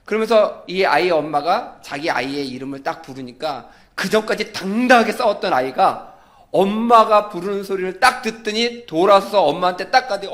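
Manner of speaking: ordinary talk, nothing marked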